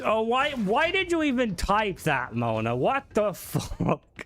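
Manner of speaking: incredulous and drawn-out; exasperated. Real, not acted. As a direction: draw out the disbelief, laughing at the end. Exasperated at what Mona typed.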